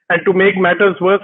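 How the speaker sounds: normal talking voice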